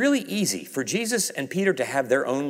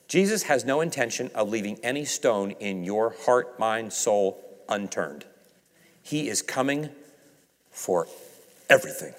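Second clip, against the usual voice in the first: hushed emphasis; 6 semitones lower, 6 dB quieter than usual. Real, not acted. Preacher drops into intimate emphasis.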